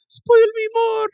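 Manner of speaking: high, loud bratty demand; spoiled brat. Pretend. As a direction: play the spoiled brat, hammed up. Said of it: "you're talking like a spoiled brat right now".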